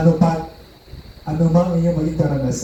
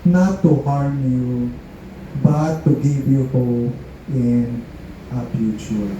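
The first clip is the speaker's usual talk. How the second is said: scripture reading; slower than usual. Acted. Reads Bible verse aloud.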